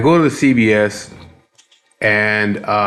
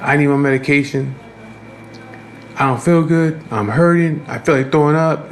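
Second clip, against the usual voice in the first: higher-pitched imitation of her moaning; mock complaining; 5 semitones higher than usual. Woman telling the waiting line she is sick, mock complaining. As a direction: mimic a sick customer's list of complaints. Retelling her whining about illness.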